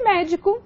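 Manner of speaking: "médico" with stress on MÉ; stress on antepenultimate. Shown as a demonstration. Teacher giving an example of antepenúltima tônica, "médico" stressed on MÉ. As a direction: lean on the first syllable, MÉ, of "médico". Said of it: "antepenúltima tônica".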